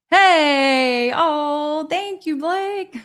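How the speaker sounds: high, loud burst of joy at a donation; real delight, pitched high and bright with surprise; delighted thanks. Real, not acted. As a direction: squeal your thanks, overjoyed. Thrilled at a super chat.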